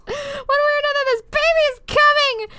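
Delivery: high, urgent half-yelled announcement; mock labour cry. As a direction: cry it out as the contractions hit. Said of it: "I cried as my breathing became labored".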